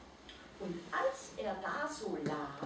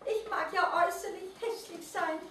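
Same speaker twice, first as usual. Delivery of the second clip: high, overjoyed creature voice; beside himself with joy; 12 semitones higher than usual. A narrator's reading. Happy mole rat shouting to the forest, overjoyed. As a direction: cry it out with joy. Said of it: "außer sich vor Freude".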